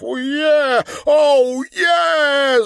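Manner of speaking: very high, loud whoop; ecstatic shout. A narrator's reading. Viktor whoops in ecstasy, very high and loud. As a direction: yell it out.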